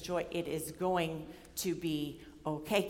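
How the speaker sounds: soft, slow, patient reassurance; grandfatherly reassurance. Retold or imitated. Advisor gently repeating reassurance, soft and slow. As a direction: settle her down like a grandfather. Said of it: "his grandfatherly way".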